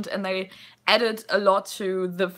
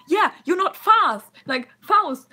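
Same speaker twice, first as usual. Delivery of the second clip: goblin voice; 10 semitones higher, 7 dB louder than usual. Retold or imitated. Goblin reply, retold.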